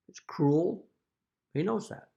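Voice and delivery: breathy whispered condemnation. Real, not acted. Father condemning the court's actions in a whisper. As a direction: drop to a hiss of a whisper. Hushed accusation in rant.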